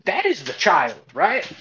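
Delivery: put-on loud, high southern accent demanding. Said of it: "I can do a southern accent much easier".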